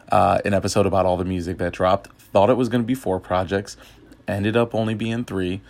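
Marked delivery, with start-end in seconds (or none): 4.3-5.6 hiccuping mid-sentence; words broken by a hiccup. Real, not acted. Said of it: "got the hiccups".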